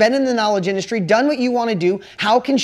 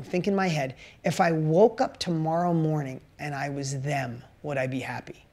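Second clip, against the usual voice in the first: confiding; 6 semitones lower, 5 dB quieter than usual. Real, not acted. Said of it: "can I tell you a little secret".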